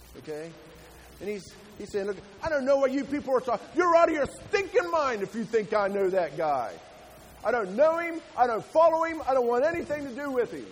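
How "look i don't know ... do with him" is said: loud, high, irritated angry yelling. Retelling Peter denying Jesus, acting out Peter screaming. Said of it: "he's screaming at these people".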